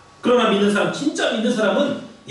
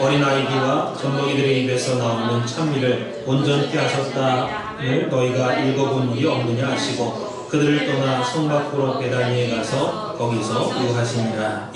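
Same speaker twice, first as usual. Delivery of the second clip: low, measured Bible reading voice; solemn scripture recitation; 7 semitones lower than usual. Acted.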